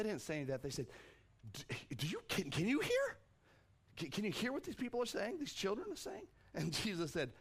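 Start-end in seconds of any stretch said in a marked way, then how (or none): 1.5-6.3 rising, much higher sneering questions; mocking. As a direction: needle him with each question. Priests' taunt acted again.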